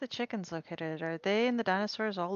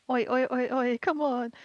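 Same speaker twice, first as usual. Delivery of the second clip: loud, higher hey-you call; calling out loudly; 5 semitones higher, 7 dB louder than usual. Real, not acted. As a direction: shout to grab attention. Calling out to the character.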